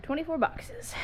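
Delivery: slow, spelled out for clarity; slow repeat. Real, not acted. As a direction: drag each word out, slowly.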